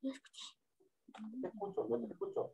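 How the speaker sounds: choppy robotic audio over a bad connection; broken digital stutter on the line; half robot voice. Real, not acted. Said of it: "se escucha como robot".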